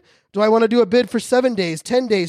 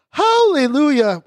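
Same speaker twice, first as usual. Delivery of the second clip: high, drawn-out hallelujah of relief; a slow hammed-up churchy hallelujah; mock hallelujah; 7 semitones higher, 4 dB louder, slower than usual. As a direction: sing out the hallelujah, slow and loud. Relieved users finally see art.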